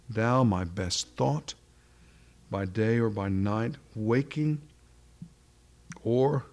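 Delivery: slow, solemn poem reading, lingering on each line; reciting a hymn. Acted. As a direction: recite it like a treasured old prayer.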